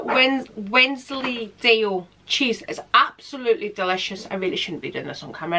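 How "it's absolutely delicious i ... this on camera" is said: talking through a mouthful; chewing while speaking, mouth full. Real, not acted. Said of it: "speaking with my mou-, mouth full".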